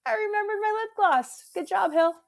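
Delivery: high delighted self-cheer; hammed-up bright pride; proud self-praise. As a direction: beam over the lip gloss. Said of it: "I was like".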